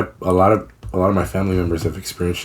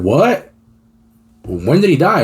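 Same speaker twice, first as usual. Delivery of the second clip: higher-pitched disbelieving questions; startled, raised-pitch retelling of disbelief; retold shock; 7 semitones higher, 4 dB louder, slower than usual. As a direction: act out being stunned by the news. Retells shock at news of death.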